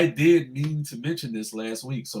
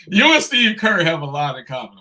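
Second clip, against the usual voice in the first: insinuating; 6 dB louder than usual. Real, not acted. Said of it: "If you read between the lines".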